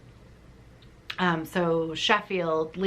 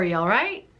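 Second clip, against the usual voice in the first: Yorkshire accent. Shown as a demonstration. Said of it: "It sounded more like".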